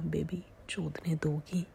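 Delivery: slow, breathy-free hushed whisper; whisper in ear. Acted. Boyfriend whispering into her ear in the dark theatre, slow hushed whisper. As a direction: lean in and whisper it slowly. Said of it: "मेरे कान में कहा".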